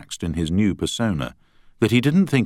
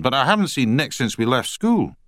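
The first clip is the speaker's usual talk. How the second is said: put-on Scottish accent; 8 semitones higher, 3 dB louder than usual. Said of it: "in a strong Scottish accent".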